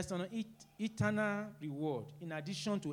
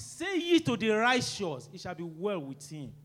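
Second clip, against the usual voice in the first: forceful scripture reading; 6 dB louder than usual. Acted. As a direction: proclaim the verse to the hall. Preacher reads scripture forcefully.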